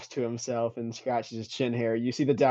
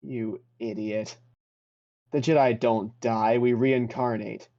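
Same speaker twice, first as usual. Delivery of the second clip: scornful Jedi spirit; slower than usual. Acted. Jedi spirit scolds the player.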